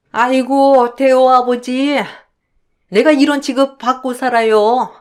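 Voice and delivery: lightly voiced old woman lamenting to her late husband; mock wailing. Mother-in-law crying out to her dead husband, mildly wailing. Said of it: "돌아가신 시아버지를 찾으며 울어대는데".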